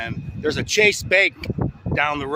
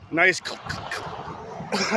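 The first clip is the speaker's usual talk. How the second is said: choking on a bug; sputtering, throat caught; just swallowed a bug; 2 semitones higher, 5 dB quieter than usual. Real, not acted. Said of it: "swallowed the bug".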